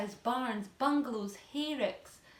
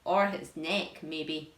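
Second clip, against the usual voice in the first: hopeful aunt voice; 5 semitones lower, 5 dB louder, slower than usual. Acted. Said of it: "Aunt Sponge said hopefully".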